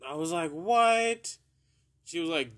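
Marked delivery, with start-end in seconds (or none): 0.5-1.4 much higher, louder, indignant "What?"; surprised. Retold or imitated. Shocked when mom cuts him off, surprised "What?". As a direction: shoot it back in disbelief. Stunned at being cut off.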